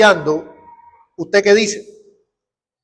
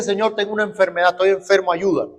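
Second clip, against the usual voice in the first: soft quick plea; 5 dB quieter, faster than usual. Retold or imitated. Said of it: "Usted dice".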